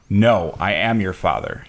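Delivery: slow, lightly voiced Vader line; a hint of Darth Vader, drawn out; slow Darth Vader quote. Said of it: "He says".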